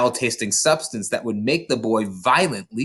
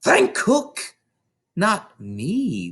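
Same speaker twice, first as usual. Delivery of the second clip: Trunchbull voice; 8 semitones higher, much slower than usual. Acted.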